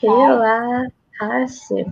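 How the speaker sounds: relajar-se very slow, syllable by syllable; slow careful repeat. Shown as a demonstration. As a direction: copy the teacher slowly. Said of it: "teacher models word". (aluna repete relajar-se bem devagar)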